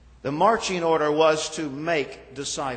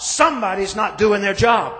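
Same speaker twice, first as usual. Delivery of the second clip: louder, higher exasperated cry as Lucy; mock scream; 4 semitones higher, 6 dB louder than usual. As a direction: call it out like a mildly hammed-up scream. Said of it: "then she screams out".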